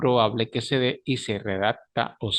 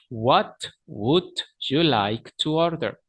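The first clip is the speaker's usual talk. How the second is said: What would you like to order? said slowly, word by word; slow model reading; slow repeat; slower than usual. Shown as a demonstration.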